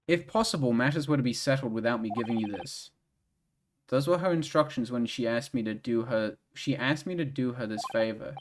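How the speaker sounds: lightly voiced gentleman detective; game dialogue voices. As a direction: read the scene with calm gravity.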